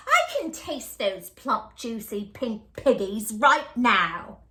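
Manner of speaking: witch relishing her meal, lips smacking; lightly voiced hungry witch; greedy witch. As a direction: savour every word like a hungry hag. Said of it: "Gritch said, smacking her lips".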